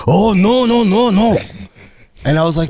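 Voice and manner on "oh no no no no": high, loud panicked no-no-no; hammed-up, high-pitched alarm; alarmed refusal. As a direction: play a man horrified by a proposal. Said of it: "And he's like".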